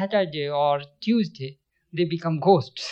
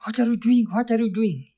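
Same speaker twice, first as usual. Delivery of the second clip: mildly raised, higher retold outcry; crying out; 5 semitones higher, 3 dB louder than usual. Disciple to his master at a sudden touch, crying out. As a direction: call it out higher, as if startled. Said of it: "he cried out".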